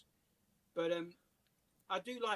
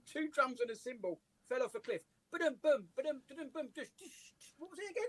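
fumbling punchline, drum noises piling up; muddled ba-dum sounds trailing off; botched joke telling; 3 semitones higher than usual. Retold or imitated. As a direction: lose the rimshot and ramble through it. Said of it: "I got it completely wrong".

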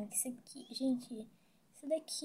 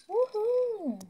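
zipline whoop; 9 semitones higher than usual. Real, not acted. Riding the zipline.

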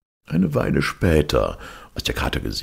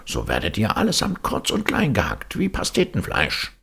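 threatening cat; 6 semitones higher than usual. Acted.

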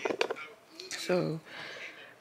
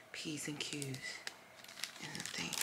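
trailing whisper; 3 semitones lower, 19 dB quieter, much slower than usual. Real, not acted.

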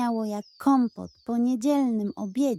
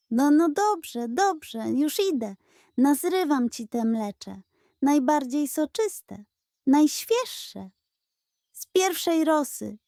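higher, grand heroic pledge; heroic pug; 4 semitones higher than usual. Acted. Pug heroically promising the goat dandelions, higher. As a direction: declaim it like a hero. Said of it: "zawył bohatersko".

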